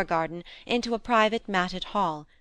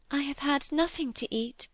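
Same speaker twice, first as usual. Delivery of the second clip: put-on a mild pitiful little-girl voice, softer and higher; piteous; 7 semitones higher, 4 dB quieter than usual. A narrator's reading. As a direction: plead weakly, tired and hungry. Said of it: "rather piteously".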